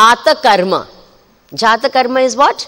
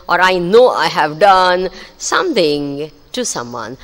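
slow, deliberate plea to God; measured prayer, weighing each word; prayer with feeling; slower than usual. Shown as a demonstration. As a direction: demonstrate a heartfelt confession, phrase by drawn-out phrase. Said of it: "The important thing is the feeling".

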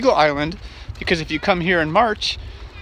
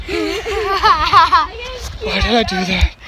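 slow, high, drawn-out tired groan; mock exhausted whine; 12 semitones higher, 4 dB louder, much slower than usual. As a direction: stretch it out like you're spent. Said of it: "I'm so tired now".

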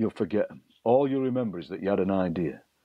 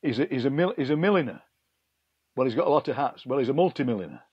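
ridiculous gag; 4 semitones higher, faster than usual. Retold or imitated. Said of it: "you do a ridiculous gag like".

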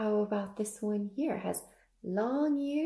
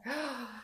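mock scared gasp; 8 dB quieter than usual. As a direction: pretend startled gasp. Pretend scare after the rhyme.

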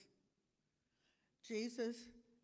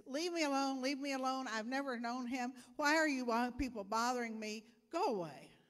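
much louder, higher, pushing them away; angry denial; 4 semitones higher, 8 dB louder than usual. Acted. Peter yells at the crowd, loud and angry. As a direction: shout them off in panic. Peter angrily denying third time.

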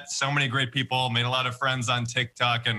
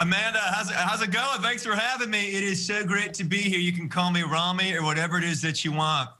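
Rami impression; 5 semitones higher than usual. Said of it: "should I introduce you as Jeff or Rami?".

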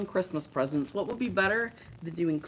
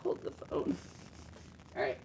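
whispered mock quote; 4 semitones lower, 10 dB quieter than usual. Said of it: "She's like".

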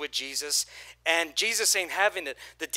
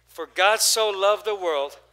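group recitation; 5 dB louder than usual. Shown as a demonstration. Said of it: "One, two, three".

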